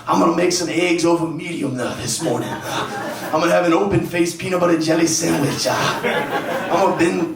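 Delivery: lightly put-on old man's cadence; a hint of an old black guy, savoring each word. Man at home boosting his self-esteem, old black guy voice. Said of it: "talking like an old black guy".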